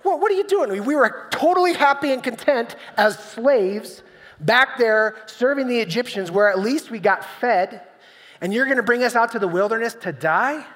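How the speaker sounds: high, whiny, complaining crowd voice; griping Israelites. Retold or imitated. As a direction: moan it at Moses like people who feel betrayed. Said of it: "griping and complaining, saying".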